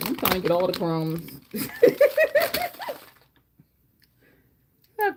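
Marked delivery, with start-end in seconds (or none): 1.3-3.0 high rising laugh burst; squealing laugh. Real, not acted. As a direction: cackle at yourself. Laughing at crumbs everywhere.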